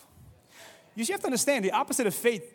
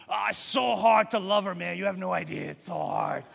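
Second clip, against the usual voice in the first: mock moaning complaint; 3 semitones lower than usual. Mock lovesick moaning partner.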